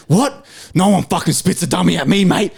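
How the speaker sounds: mock indignant truck driver; retold angry outburst. Worker imitating a driver who snapped, mock-outraged. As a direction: imitate a bloke suddenly taking offence. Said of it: "just something clicked in his brain".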